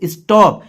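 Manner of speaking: स्टॉप with a broad "aw" vowel; open o in स्टॉप. Shown as a demonstration. Teacher giving example of second o sound, open "aw" in स्टॉप. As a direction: say स्टॉप as "stawp". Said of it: "दूसरा अ है".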